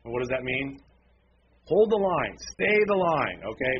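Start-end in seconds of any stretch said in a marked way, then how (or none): 1.7-3.4 louder, higher rallying command; rallying exhortation. Real, not acted. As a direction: urge them like troops in battle. Preacher exhorting with battle commands.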